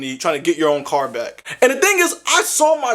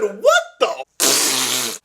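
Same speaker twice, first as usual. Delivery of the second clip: shocked cry; 4 semitones lower than usual. Retold or imitated. Narrator hearing the tow fee, shocked squeal. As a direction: squeal it in disbelief.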